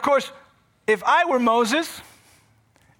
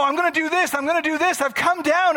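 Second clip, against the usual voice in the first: voicing God; 8 semitones higher, 4 dB louder than usual. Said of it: "he hears God say".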